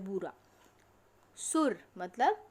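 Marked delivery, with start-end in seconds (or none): 0.0-0.3 बूरा with a long held ऊ; long u shown. Shown as a demonstration. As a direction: stretch the ऊ in बूरा. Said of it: "उसे क्या बोला जाता है". (बूरा में लंबा ऊ)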